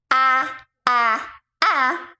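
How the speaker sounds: ah as the short a in apple; short a sound. Shown as a demonstration. Coach modeling the short a sound for kids. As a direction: say ah, ah, ah like biting an apple. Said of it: "like you're eating an apple".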